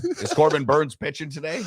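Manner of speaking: lightly voiced old-timey announcer; a hint of the radio man; 1920s sportscaster voice. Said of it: "nineteen twenty sportscaster's voice".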